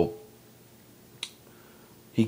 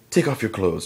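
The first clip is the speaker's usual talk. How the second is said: higher, forceful order; acted command; 4 semitones higher, 3 dB louder than usual. Woman ordering the intruder to strip, mock stern. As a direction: give a sharp retold order.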